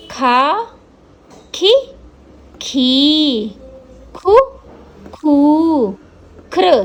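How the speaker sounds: each syllable खा to खहा said separately and clearly; recitation drill. Shown as a demonstration. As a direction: recite the whole barahkhadi in turn. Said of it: "अभ्यास कर लेते हैं". (बारहखड़ी का अभ्यास, हर अक्षर अलग)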